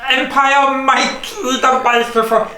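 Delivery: hammed-up British host voice; a put-on British accent, lightly; playful fake British announcer; mock British. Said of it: "I am your British Empire Mike".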